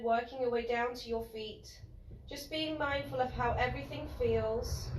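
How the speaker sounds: soft, unhurried yoga teacher voice with pauses; guided relaxation. Real, not acted. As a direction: gently guide them into noticing body and breath. Guides relaxation lying on mat.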